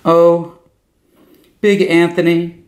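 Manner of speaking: sugary praising high voice; gushing exclaim. A narrator's reading. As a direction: flatter him sweetly. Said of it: "Strega Amelia exclaimed".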